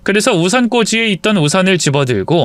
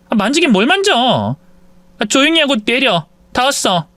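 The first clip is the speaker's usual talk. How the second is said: hushed scolding wife; 8 semitones higher than usual. Acted. Wife hushing lover in elevator.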